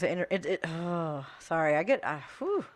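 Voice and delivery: soft, halting, real upset; overcome, breaking off mid-sentence; triggered. Real, not acted. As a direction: falter and let out a heavy breath. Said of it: "it's very triggering".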